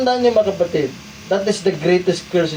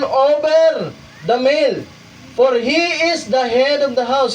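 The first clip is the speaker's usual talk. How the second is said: reads the highlighted English passage aloud; preacher reading scripture notes aloud; 6 semitones higher than usual. Shown as a demonstration. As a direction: read the quoted text out to the congregation. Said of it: "Nabasahin na lang natin yung mga highlighted".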